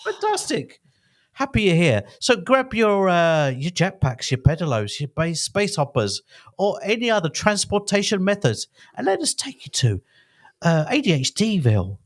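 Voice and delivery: lively announcer-style podcast intro; theatrical script read. Acted. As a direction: perform the welcome with gusto. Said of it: "a Laurence, uh, Olivier performance".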